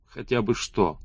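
softly croaked question; hoarse croak. A narrator's reading. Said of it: "прохрипел Алан".

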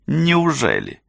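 high, incredulous question; mocking amusement. A narrator's reading. Rosalinda laughs at Cassie's claim, high mocking question. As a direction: toss it out high and derisive. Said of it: "Розалинда засмеялась".

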